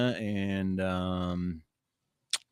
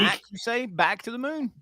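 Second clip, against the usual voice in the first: dramatic sci-fi voice; 12 semitones higher than usual. Pretend. Mock-dramatic sci-fi reply.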